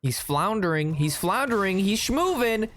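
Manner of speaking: playful match commentary with rising urgency; mock play-by-play. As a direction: call the game like a sportscaster.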